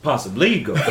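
repeating it while cracking up; laughing through words. Real, not acted.

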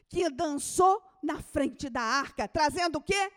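loud, fervent preaching; sermon cry; preaching at full force. Acted. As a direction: proclaim it over the congregation. Preacher proclaiming.

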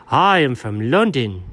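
put-on insistent, terribly done British accent; bad British accent. Cat tries another hometown on doubting dog, bad British accent. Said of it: "a pretty terribly done British accent".

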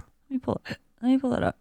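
talking through hiccups. Real, not acted. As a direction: catch on each hiccup. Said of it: "Sorry, hiccups".

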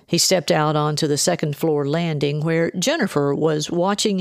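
steady audiobook reading voice; calm novel narration; story narration. A narrator's reading. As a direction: read the chapter like an audiobook narrator. Reads the novel chapter aloud.

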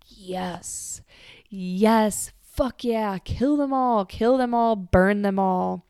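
hushed yes building to loud, fierce relish; bloodthirsty glee. Retold or imitated. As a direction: savage cheer that starts as a whisper. Kali's bloodlust while watching destruction.

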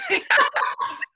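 quick high laugh, out loud; sudden laugh. Real, not acted. Forgot to thank her sponsor.

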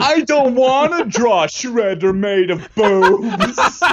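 laughing. Acted. Laughing mock complaint to wife.

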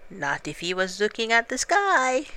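Piglet, quick and hopeful. Acted. Piglet reassuring Pooh about the trap, lightly voiced piglet.

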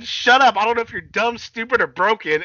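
high, scornful mock wrestler voice; theatrical retold put-down; imitated insult. Acting Hardy's insult.

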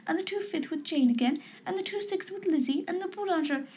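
high, breathless gushing society mother; high-pitched gossiping matron voice; excited Mrs Bennet. A narrator's reading. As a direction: gush about the ball like a thrilled silly mother.

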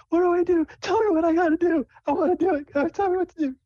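can't wait, tell me now; high hyper girlish voice; excited Sable. Acted. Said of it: "She's like".

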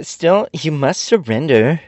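high, slow, stern order; fierce command. A narrator's reading. General to guardian, fierce high demand. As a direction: make her surrender sound fierce. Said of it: "exclaimed the general fiercely".

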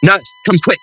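calling out in panic; urgent shout. Acted. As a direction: yell for the nurse, urgently. Calling for help, patient flatlining.

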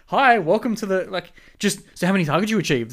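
loud, high sarcastic rant; mock outraged. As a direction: scoff at the clueless boss. Mock rant at new manager.

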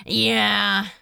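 loud, drawn-out fake sheepishness; hammed-up awkwardness; mock embarrassment. A narrator's reading. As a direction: draw it out as if embarrassed. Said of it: "in mock embarrassment".

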